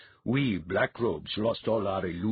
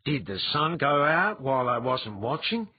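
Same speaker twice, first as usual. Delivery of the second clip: surprised; 7 semitones higher, 4 dB louder than usual. A narrator's reading. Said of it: "with a surprised look".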